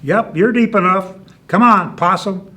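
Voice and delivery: calling out. Acted. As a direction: call it out, slowing on the last line. Rabbit calls out in triumph.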